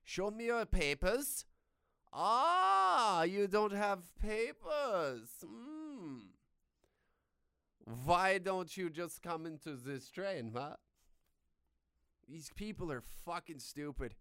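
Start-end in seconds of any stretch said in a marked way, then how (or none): 0.0-1.5 high, loud, slow demand; hammed-up Nazi guard; mock Nazi officer. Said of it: "You wanna know what Nazis did?". 2.1-10.8 high, loud, slow and menacing; cartoon villain Nazi taunt; sinister Nazi officer. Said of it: "You wanna know what Nazis did?".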